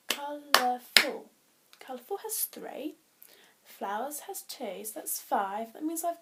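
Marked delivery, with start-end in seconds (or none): 0.1-3.0 counting syllables. Shown as a demonstration. Teacher working out how many syllables colourful has, loudly split. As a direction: punch out each of the three syllables in "Colourful". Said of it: "I wonder how many that has".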